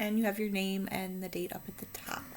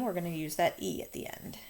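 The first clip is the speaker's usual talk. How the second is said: whispered tip; 6 dB quieter, faster than usual. Real, not acted. Teaching tip trailing into aside.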